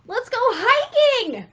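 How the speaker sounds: loud, high and slow cheerful call; mock-peppy friend; eager invitation. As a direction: sell the hike with gusto.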